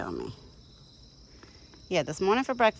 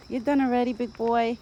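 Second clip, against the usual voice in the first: higher, louder talk to an animal; pet talk; 6 semitones higher, 3 dB louder than usual. Real, not acted. Woman to her deer as he finishes eating, pet talk. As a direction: coo a surprised question at a big pet.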